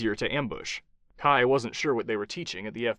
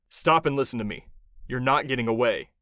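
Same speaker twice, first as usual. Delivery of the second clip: matter-of-fact. Acted. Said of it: "Kai said matter-of-factly".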